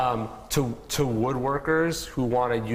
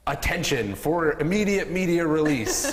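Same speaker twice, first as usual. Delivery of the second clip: stiff press release voice; 5 semitones higher than usual. Retold or imitated. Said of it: "rather than, like".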